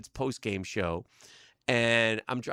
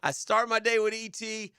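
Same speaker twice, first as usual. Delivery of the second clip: exasperated; 4 semitones higher than usual. Retold or imitated. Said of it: "I was just like".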